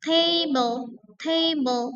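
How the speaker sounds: table with first syllable stressed. Shown as a demonstration. Teacher drilling table with stress on TA. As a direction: hit TA in table. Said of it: "yang saya kapital itu yang stress".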